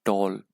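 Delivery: टॉल said loud as one single beat; one firm, loud beat on टॉल; one syllable. Shown as a demonstration. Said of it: "एक ही syllable में बोल दिया".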